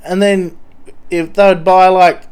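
a dodgy addict boasting; twitchy slurred sniffing addict. Pretend. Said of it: "Mister Junkie from train station".

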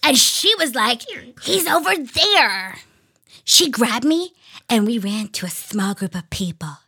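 lightly voiced kid reading diary; pinched voice. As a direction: read it like an excited young girl. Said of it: "I'm gonna do my kid voice".

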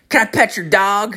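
high-pitched mimicked kid voice; little kid. Small kid asking a stranger in a parking lot, high kid voice. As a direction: imitate a child piping up. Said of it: "there's, like, this little kid".

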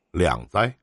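Cantonese-style "leng zai" called out; cantonese accent in mandarin. Retold or imitated. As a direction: say it like a Guangzhou local. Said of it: "都会管我叫".

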